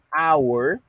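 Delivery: hour said like awer, the ou as au. Shown as a demonstration. Teacher models how hour sounds, ou as au. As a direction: stretch the ou of hour into au. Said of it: "suena de esa manera".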